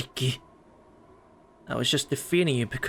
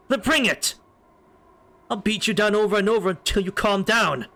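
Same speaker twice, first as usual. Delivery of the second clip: defiant challenge; 5 semitones higher than usual. Acted. Challenging to a fight.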